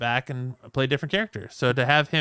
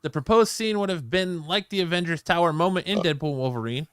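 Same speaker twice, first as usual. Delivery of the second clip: raised, emphatic article-reading voice; news read; 4 semitones higher, 4 dB louder than usual. Real, not acted. Host reads Deadpool cameo story to co-hosts, news read.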